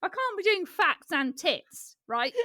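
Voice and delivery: high laughing complaint; laughing while quoting. Retold or imitated. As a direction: laugh the words out. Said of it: "So I was like".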